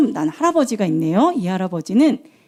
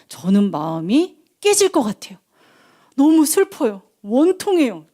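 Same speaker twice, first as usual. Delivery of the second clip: tag; 3 semitones higher than usual. Acted. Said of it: "한나의 기도 제목".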